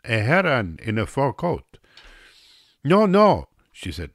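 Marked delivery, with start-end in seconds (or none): 0.1-1.8 "heron" said like the bird, ending in a plain n; misheard "heron". A narrator's reading. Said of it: "That's what I heard her saying". 2.8-3.5 high, loud Russian hostess objecting; insistent, high-pitched protest; emphatic correction. A narrator's reading. Russian woman corrects the narrator.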